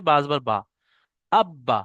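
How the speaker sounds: আব্বা with the ব said twice, held; doubled consonant demo. Shown as a demonstration. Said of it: "যখন নিজে নিজে উচ্চারণ হচ্ছে".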